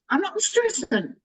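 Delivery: mock defensive insistence that nothing is wrong; defensive denial. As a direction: brush it off too brightly, protesting too much. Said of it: "And I'm thinking".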